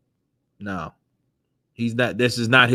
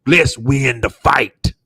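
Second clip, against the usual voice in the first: playing Wilder. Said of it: "Imagine Shirley Finkel talking to Wilder".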